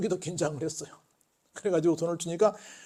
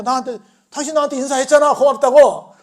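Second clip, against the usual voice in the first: insisting; 8 semitones higher, 11 dB louder than usual. Acted. Teacher insists to policeman.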